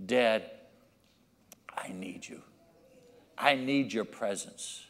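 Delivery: low, hushed plea with long pauses; tender pleading. Acted. Child at the Father's door asking for his presence, hushed. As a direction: say it softly, in earnest need.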